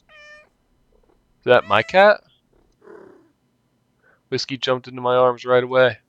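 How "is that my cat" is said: drawn out, much higher, slow and incredulous; slow amazed question; stunned disbelief. Acted. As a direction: ask it like you can't believe your eyes. Finding her lost cat.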